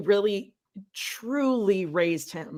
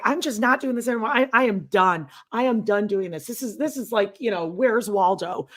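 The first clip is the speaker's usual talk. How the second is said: ranting imitation; 2 semitones higher than usual. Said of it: "she starts going off".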